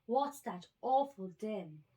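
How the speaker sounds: a small elephant calf, alarmed; baby elephant. A narrator's reading.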